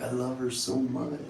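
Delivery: slow, drawn-out lovesick pleading; mock lovestruck teenager; lovesick self. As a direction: swoon over the girl. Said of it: "it'd be like".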